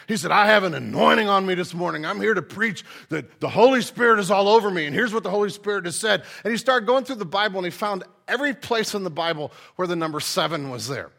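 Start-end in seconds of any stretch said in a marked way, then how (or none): 0.3-6.2 loud, fervent TV preacher imitation; passionate preacher. Pastor mimics a man preaching on TV, passionate. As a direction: proclaim it like a fired-up televangelist. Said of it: "man, he was passionate".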